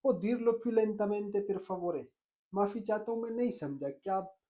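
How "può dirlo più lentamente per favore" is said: slow model phrase. Shown as a demonstration. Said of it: "कहो".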